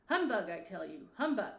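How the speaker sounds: loud dismissive humbug; loud scoff. Acted. Scrooge scoffing at the ghost, loud and defiant. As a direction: bark the humbug at him.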